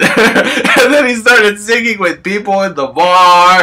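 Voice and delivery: giggling through the words; barely holding in laughter; laughing while telling it. Real, not acted. Laughing while telling funny story.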